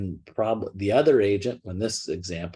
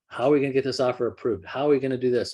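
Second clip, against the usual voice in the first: mock anxious buyer; 3 semitones higher, much faster than usual. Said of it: "When you have buyers upset".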